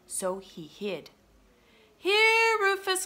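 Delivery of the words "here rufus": high, loud call for the dog; raised, sing-out child's call. A narrator's reading. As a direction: call the dog from across the house. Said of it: "called Lucy".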